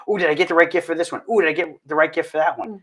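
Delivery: fast, worried inner voice; quick anxious self-talk; fretting. Retold or imitated. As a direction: rush through the doubts. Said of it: "we wanna get".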